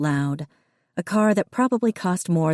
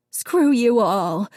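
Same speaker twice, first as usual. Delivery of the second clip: higher, slow, tearful outburst; mother cursing through tears, higher and slow; tearful curse; 6 semitones higher, 4 dB louder, slower than usual. A narrator's reading. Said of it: "Missus Dunn said, tears leaking".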